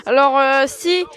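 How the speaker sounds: talking with a blocked nose; stuffy nose, congested voice. Real, not acted. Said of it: "j'ai le nez bouché".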